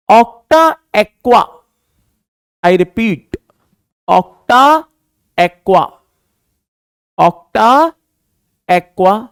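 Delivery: very slow, each part split off by long pauses; slow dictation. Shown as a demonstration. Teacher repeats the ligand for students taking notes, slowly. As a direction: dictate it piece by piece.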